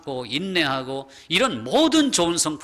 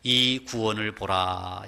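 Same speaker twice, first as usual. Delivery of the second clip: lower, slow solemn command; voice of God; 3 semitones lower than usual. Acted. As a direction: reassure the trembling people as God. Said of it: "이렇게 말씀합니다". (낮고 느린 엄숙한 명령)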